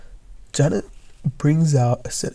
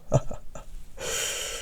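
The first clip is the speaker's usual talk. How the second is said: evil chuckle; 12 dB quieter than usual. Acted. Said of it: "give a evil chuckle".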